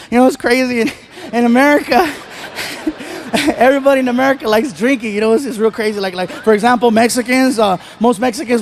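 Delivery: lightly acted nervous stammer; mock nervous stuttering. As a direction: stumble and repeat yourself, feigning nerves. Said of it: "I'm so nervous, I'm stuttering".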